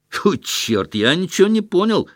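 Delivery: a flustered officer shouting out. A narrator's reading. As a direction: blurt it out, baffled and irritated. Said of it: "крикнул один офицер".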